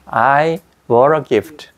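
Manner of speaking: I bought a gift very slowly, gift's t barely released; soft t. Shown as a demonstration. Teacher models gift with a barely released t, slowly. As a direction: let the t of gift only just pop. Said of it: "t가 거의 터지는 소리만 난다고요".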